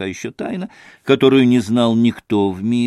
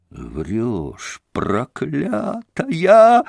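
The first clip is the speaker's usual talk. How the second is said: furious yell; 3 semitones higher, much slower than usual. A narrator's reading. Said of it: "завопил Митя".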